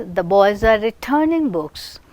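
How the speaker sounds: tonic accent on the last word, "books"; stress on books. Shown as a demonstration. Teacher reads another example sentence, nucleus on books. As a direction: make final "books" the nucleus. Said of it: "Here we have made as the last one".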